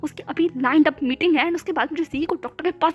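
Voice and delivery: shouting. Acted. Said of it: "इतनी जोर से चिल्लाते हुए कहा".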